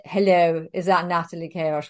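lightly imitated posh English caller; a hint of upper-class English phone manner. Official phoning her out of the blue, lightly posh English accent. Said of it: "a very posh man said".

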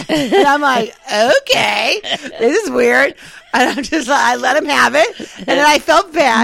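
half laughing, half crying as she tells it; real tears breaking through laughter; crying while laughing. Real, not acted. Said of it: "I am sobbing".

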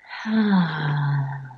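long audible out-breath sigh; deep exhale sigh. Shown as a demonstration. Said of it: "take a big breath in and out".

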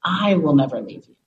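slow, measured pronouncement with long pauses; solemn inner voice. Retold or imitated. Voice promising never to leave her, solemn and unhurried. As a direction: speak as a steadfast guiding voice. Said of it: "hearing the voice saying".

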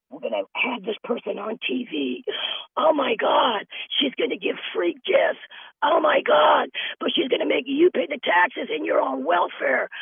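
high, gushing mock excitement; mock TV hype. Mocking TV producers with a high gushing squeal.

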